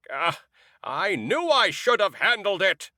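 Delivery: lightly voiced rough woman, annoyed; rough female voice. A narrator's reading. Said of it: "said a rough female voice".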